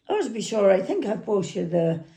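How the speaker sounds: lightly attempted Irish accent. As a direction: imitate an Irish lad, not very well. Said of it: "I can't do an Irish accent, so excuse me".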